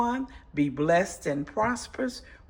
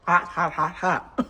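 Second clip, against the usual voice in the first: mouth full of hot food; 4 dB louder than usual. Real, not acted. Just tasted hot food.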